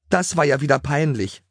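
high-pitched, mild wail of embarrassment; complain, mortified; whining. A narrator's reading. Greta after the ponies' chaos, whining. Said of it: "jammerte Greta".

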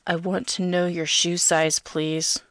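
slow, creepy plea; creepy caller, pleading; creepy begging. A narrator's reading. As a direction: beg slowly like an unsettling phone caller. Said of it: "he creepily begs me down the phone line".

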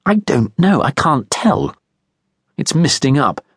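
high, petulant complaint; an irritated man fretting over his e-reader; fussy stranger. A narrator's reading. Guy fusses over device.

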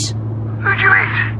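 very slow, breathy, appalled question; horrified. Acted. Bill asks in dread who she hit. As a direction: drag it out in dread.

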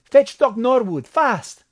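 high, urgent shout for help; very high, loud Mexican-accented shout; bellowed order. A narrator's reading. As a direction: bellow an emergency command. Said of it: "he bellowed".

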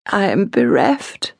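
slow, high, tearful confession. A narrator's reading. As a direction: say it as if close to tears. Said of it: "Clara said tearfully".

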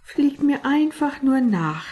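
impatient leader cutting the talk short. A narrator's reading. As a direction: snap it out, out of patience. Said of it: "sagte Achtstein ungeduldig".

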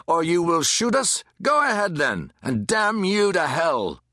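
high, heated goading; shouted defiance. A narrator's reading. Man at crowd's front dares the captain, shouting. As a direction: challenge them, then curse them slowly. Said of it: "one man in front shouting".

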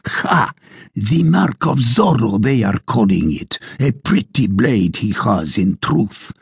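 mildly hammed-up blustering sergeant; a boastful soldier working himself up; ranting tirade. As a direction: sergeant ranting to the tavern about Zorro. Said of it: "continued his tirade".

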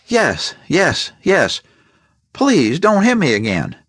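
scared victim pleading for mercy. A narrator's reading. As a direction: beg him to stop. Beaten victim begging.

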